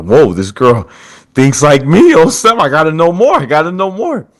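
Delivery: excited guy. Retold or imitated. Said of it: "He's like".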